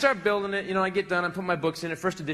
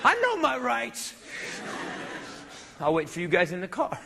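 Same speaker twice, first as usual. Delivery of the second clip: mock insistent demand; 4 semitones higher than usual. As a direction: draw it out in self-righteous protest. Insisting on being arrested.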